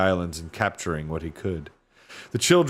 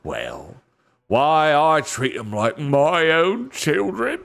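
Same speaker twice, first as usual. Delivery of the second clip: slaver; 6 semitones higher, 4 dB louder than usual. A narrator's reading. Slaver defending himself to the lord, oily. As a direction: protest your decency, oily.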